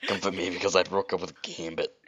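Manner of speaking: throat-straining Rogue voice; stoma voice. Acted. Rogue asks Sonic for comfort after breakup, stoma voice. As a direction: put on a mild stoma rasp. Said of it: "that stoma voice sounds like".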